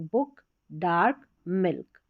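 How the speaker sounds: बुक, डार्क, मिल्क read slowly, each pressed a little; slow, weighted demo of बुक, डार्क, मिल्क, vowels not cut short; with slight pressure. Shown as a demonstration. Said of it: "थोड़ा सा हम pressure देके इसको पढ़ रहे हैं".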